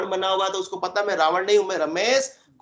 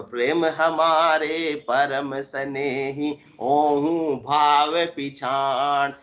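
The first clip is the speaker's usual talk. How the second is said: very slow, drawn-out couplet recitation; intoned verse; 2 semitones lower, much slower than usual. Acted. Preacher quoting a verse on love to devotees, intoned verse. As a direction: stretch each word like a devotional chant.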